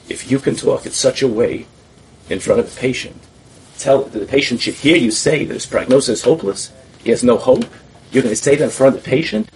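a stern doctor's scolding, acted out; scolding the student in front of the patient, loud and stern; retold scolding.

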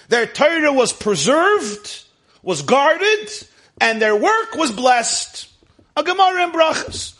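high, loud, drawn-out teaching cadence; Talmudic exposition. Acted. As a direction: press question and answer on the listeners, pitch held high. Expounds Talmud question and answer.

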